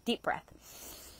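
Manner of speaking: soft breathy whisper. Real, not acted. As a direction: whisper the cue. Guiding breathing exercise.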